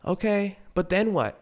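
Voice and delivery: put-on high, questioning girlfriend; lightly voiced skeptical girlfriend; imitating girlfriend. Girlfriend questioning the heist plan, mildly high. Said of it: "She'd be like".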